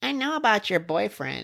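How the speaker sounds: put-on very high-pitched little old woman voice. Retelling a scene where an old lady appears holding a knife; put-on old lady voice. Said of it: "in her old lady voice is like".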